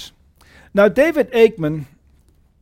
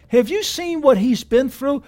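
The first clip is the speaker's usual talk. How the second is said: incredulous; 7 semitones higher than usual. Retold or imitated. Mock disbelief at Paul's words.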